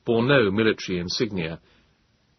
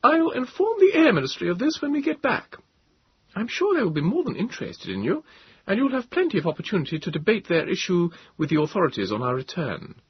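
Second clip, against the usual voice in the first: higher, commanding officer's voice; higher voice of a commanding captain; Captain Bond, commanding; 11 semitones higher than usual. A narrator's reading. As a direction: state your orders as a firm officer, pitched higher.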